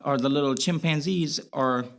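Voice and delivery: Boston accent slipping into his speech; casual Boston accent. Real, not acted. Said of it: "you having your Boston accent right now".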